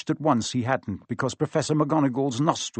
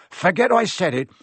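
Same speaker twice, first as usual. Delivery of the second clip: Hagrid hurrying, louder and higher; calls after them in a fluster; a lightly voiced panicking Hagrid; 6 semitones higher, 7 dB louder than usual. A narrator's reading.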